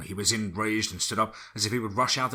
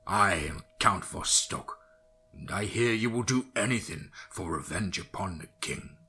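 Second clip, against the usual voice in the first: ominous vampire voice. Acted. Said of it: "ominous voice".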